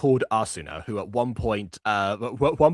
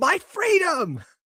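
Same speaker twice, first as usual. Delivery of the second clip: very high, shrieking scream. Retelling how a kidnapped character answers her captor: imitating a scream. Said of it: "And then she screams".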